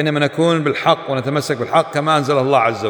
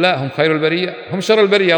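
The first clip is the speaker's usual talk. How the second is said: mock protest; 4 semitones higher than usual. Preacher mocking those who deny the verse, mock indignant retort. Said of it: "نقول".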